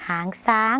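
Lao-style หางช้าง with an s on the last word. Shown as a demonstration. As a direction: say หางช้าง as "hang sang", s replacing ch. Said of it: "เราไม่มีเสียงชอช้างค่ะ".

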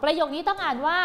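slow, drawn-out prompting question; teacher coaxing the class to read. Shown as a demonstration. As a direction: stretch it so the class can answer.

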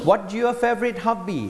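"What's your favorite hobby?" modelled whole for repetition; teacher's model. Shown as a demonstration. Teacher has students repeat after him, modelled full question. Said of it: "ออกเสียงตาม teacher".

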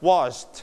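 "washed" with a gentle t after sh; light final t. Shown as a demonstration. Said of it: "ถือเบาๆนะครับ".

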